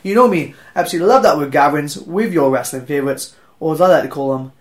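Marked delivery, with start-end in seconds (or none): none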